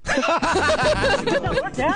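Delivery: high-pitched, stretched-out disbelief with laughter; incredulous shock. Acted. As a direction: balk at the price, voice shooting up. Staged shock at requested discount.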